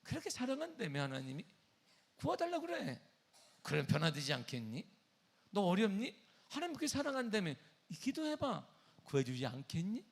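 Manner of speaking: high, swooping sarcastic taunts; acted sarcastic needling; mocking sneer. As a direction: jeer at a believer with sing-song questions. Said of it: "아주 빈정대며 얘기합니다".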